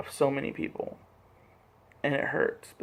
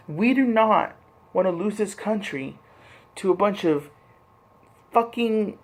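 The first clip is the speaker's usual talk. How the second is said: angry outburst; 2 semitones higher than usual. Real, not acted. Rant against hate and Nazis.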